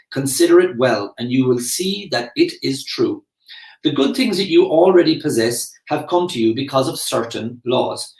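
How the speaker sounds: measured book reading, slightly lifted pitch; reading aloud. Acted. Teacher reading a gratitude passage to followers, reading aloud. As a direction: read the passage out with deliberate emphasis.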